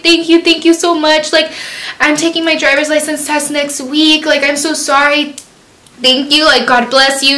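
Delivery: mock-weepy thanks and apology; retold crying. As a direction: imitate gushing thanks through tears. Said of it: "I was all crying".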